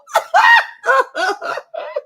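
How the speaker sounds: loud high shriek of laughter. Real, not acted. Howling at her own pillow joke, loud shrieking laugh.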